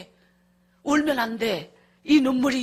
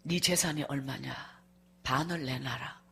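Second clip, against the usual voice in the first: husband demanding; 9 semitones lower, 8 dB quieter than usual. Retold or imitated. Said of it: "이혼해주겠다고 저보고".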